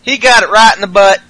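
high laughing mock shout. Host voicing Styles laughing at Ellsworth's beating, laughing shout. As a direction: cackle out the words, slowing. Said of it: "Styles is like".

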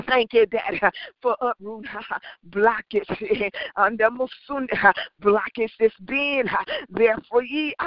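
thanks broken by joyful laughter; laughing with joy. Real, not acted. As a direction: laugh through the words in relief. Joyful thanks after prayer.

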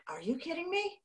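mock-astonished parent questioning a teenager; incredulous. Mother learning her son can't mail a letter, incredulous. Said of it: "that was like".

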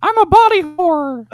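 high silly voice. Acted.

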